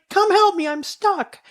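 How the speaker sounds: high-pitched mock holler for help; imitated calling out. Mom stuck in manure calls her child, imitated high holler. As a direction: call from afar, high and drawn out. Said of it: "And she's like".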